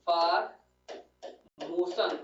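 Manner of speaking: words set apart by a pause; slow dictation. Real, not acted. Teacher has students write it down, slow dictation. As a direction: dictate word by word for note-taking.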